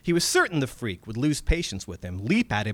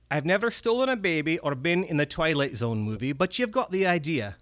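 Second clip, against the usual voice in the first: higher, wary goblin with a Scots lilt; a cagey old creature scolding the lad; old Scottish goblin; 4 semitones higher than usual. Acted. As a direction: goblin reproaching the young American. Red cap voiced.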